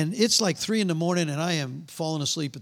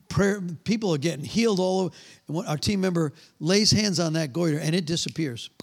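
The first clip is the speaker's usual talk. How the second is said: usual speaking voice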